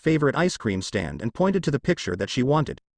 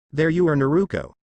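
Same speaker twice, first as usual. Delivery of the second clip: mildly angry; 2 semitones higher than usual. Acted. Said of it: "said Menma angrily".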